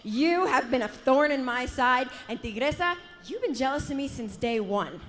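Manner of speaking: building to a furious shout; angry callout. Acted. Wrestler calls out rival.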